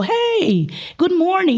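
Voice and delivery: high cheerful classroom hello; mock teacher greeting in English. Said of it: "Aí eu entro na sala de aula e falo".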